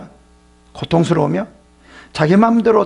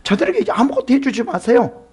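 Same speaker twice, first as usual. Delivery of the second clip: higher sly urging voice; a hint of a scheming accuser; 사탄처럼 더 높게 부추기는 목소리; Satan urging; 8 semitones higher than usual. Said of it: "사탄은 하나님께".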